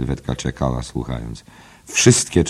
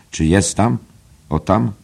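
eager peering question; 6 semitones higher, 4 dB louder than usual. Acted.

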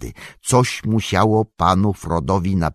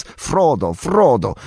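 higher calls for Frodo; calling out; 5 semitones higher, 3 dB louder, slower than usual. A narrator's reading. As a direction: call his name into the trees. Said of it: "wysokimi, donośnymi, hobbickimi głosami". (nawoływanie, wyżej)

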